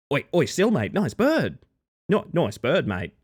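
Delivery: put-on broad Australian accent; playfully thickened Australian twang. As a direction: call out like an Aussie mate. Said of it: "It's turning me more Australian".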